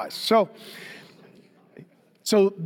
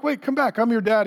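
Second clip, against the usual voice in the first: calling after; 6 semitones higher than usual. Retold or imitated. Dad calling after son.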